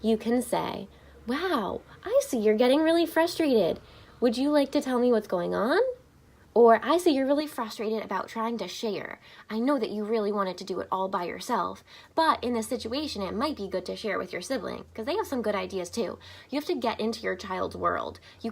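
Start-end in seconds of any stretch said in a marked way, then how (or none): 1.3-5.8 calm coaching. Shown as a demonstration. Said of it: "You can start to model calmness". 6.8-16.2 calm coaching. Shown as a demonstration. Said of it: "You can start to model calmness".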